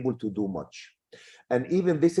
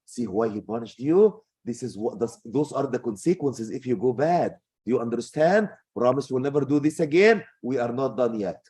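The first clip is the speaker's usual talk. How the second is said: good mom. Acted. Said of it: "But a good mom".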